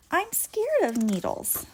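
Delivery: scared. A narrator's reading. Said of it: "with a sigh".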